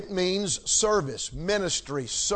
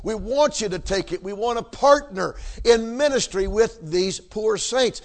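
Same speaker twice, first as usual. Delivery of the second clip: eager invitation; 2 semitones higher than usual. Retold or imitated. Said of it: "It was".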